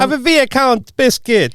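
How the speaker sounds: high, slow, hammed-up Jamaican accent; mock Jamaican, pitched right up. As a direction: put on a playful Jamaican lilt, drawn out. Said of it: "I'm a Jamaican heritage".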